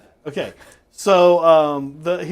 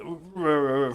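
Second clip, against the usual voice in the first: soft imitated croaking noise; half-hearted froggy croak; 3 dB quieter than usual. Joke teller imitating the frog the engineer hears, soft croak. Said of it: "sounds like a croaking sound".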